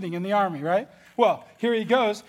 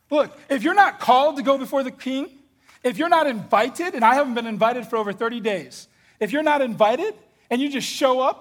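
higher, louder urgent protest; pleading Esther; 3 semitones higher, 3 dB louder than usual. Acted. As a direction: argue back, scared for her life. Esther arguing with Mordecai.

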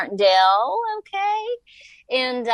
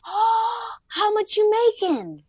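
gruff dad; 12 semitones higher, slower than usual. Retold or imitated. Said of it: "he's like".

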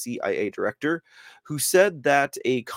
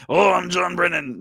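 put-on mocking voice, higher and louder; John Brennan; 4 semitones higher, 4 dB louder than usual. Host clowning as Brennan on screen, mock impression. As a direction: joke impression, pitched up and exaggerated. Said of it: "he doesn't sound like that".

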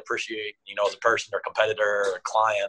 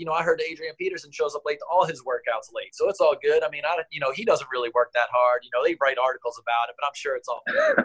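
higher, mock-friendly needling; sarcastic reassurance; 5 semitones higher than usual. Coach teasing Ray about showing up late, sarcastic. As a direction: fake comfort that really stings. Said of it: "And I was like".

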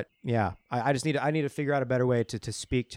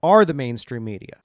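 building rant; 2 semitones higher, 5 dB louder than usual. Real, not acted. Building rant against media.

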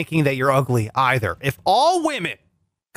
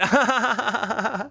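put-on laugh; 3 semitones higher, 3 dB quieter than usual. Exaggerated laugh after punchline.

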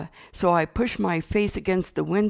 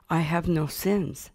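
slow, gently sincere claim; sincere insistence; 3 dB quieter, slower than usual. Retold or imitated. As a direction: insist with a touch of childlike sincerity. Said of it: "Sincerely, I said".

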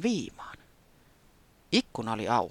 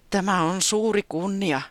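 earnestly; 6 semitones higher, 4 dB louder than usual. A narrator's reading. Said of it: "Taputi sanoi hartaasti".

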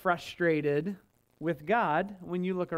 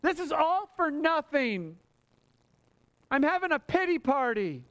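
higher, self-pitying moan; pity party whine; 5 semitones higher than usual. Retold or imitated. Asaph complaining to God in a mild mock pity-party whine. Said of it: "his way of saying".

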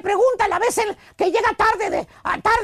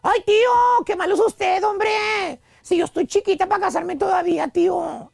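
playful coy niece. Acted. Unmarried woman dodging uncle's wedding question, playful mock protest. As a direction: tease the uncle with mock coyness. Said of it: "te dice, jugando".

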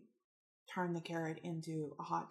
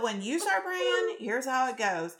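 emphatic telling; 6 semitones higher, 8 dB louder than usual. Retold or imitated. Explaining emphatically to mom.

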